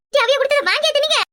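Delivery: high, alarmed scolding question; shrieked disbelief; horrified outburst. Acted. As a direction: blurt it out, appalled at the children. Mother alarmed by what children ate.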